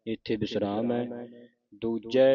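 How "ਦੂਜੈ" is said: ਦੂਜੇ ending in an open "ai"; open final vowel. Shown as a demonstration. Teacher models ਦੂਜੇ for the congregation, open "ai" ending. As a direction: say ਦੂਜੇ as "doojai". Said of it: "ਦੂਜੇ ਨਹੀਂ ਪੜ੍ਹਨਾ".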